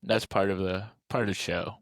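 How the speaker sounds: munching snacks between words; crunching chips. Real, not acted. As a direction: speak with a mouthful of chips. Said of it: "Can you hear my crunching?".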